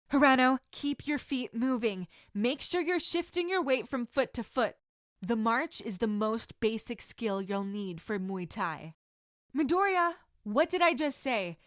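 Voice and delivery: loud stern teacher snapping at a distracted student; scolding instructor. Sensei scolding Midoriya for dropping his guard, loud and stern. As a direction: call them out firmly.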